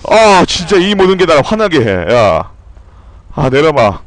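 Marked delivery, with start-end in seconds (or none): none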